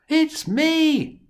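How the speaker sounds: high, loud joyful cry; cried out. Acted. Joseph revealing himself to his brothers, crying out high and loud. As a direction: burst it out, overjoyed. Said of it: "Joseph cried".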